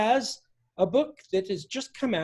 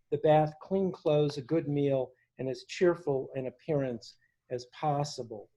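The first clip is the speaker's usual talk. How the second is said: measured, earnest reading of a journal entry; reading aloud. Acted. Host reading Whitman's hospital journal to the gathering, measured and earnest. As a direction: read it to the audience like a remembered diary.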